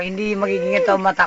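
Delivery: loose, slurred tipsy speech. Real, not acted. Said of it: "lasing na lasing".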